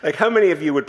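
real laughter breaking through the words; can't keep a straight face; laughing. Real, not acted. Pastor to congregation about his wife, laughing helplessly. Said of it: "I can't even say it without laughing".

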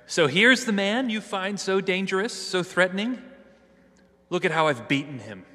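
mock the crowd, sneering at their fear; sarcastic scorn. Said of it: "dripping with sarcasm and with scorn".

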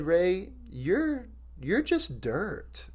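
soft, slow Southern drawl, imitated; gentle Southern accent, words drawn out. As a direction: imitate a mentor's quiet, slow Southern delivery. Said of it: "said it with his awesome Southern accent".

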